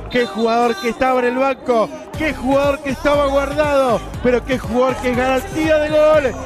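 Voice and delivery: shouted post-goal celebration; excited goal commentary. Real, not acted. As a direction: keep the thrill going after the goal.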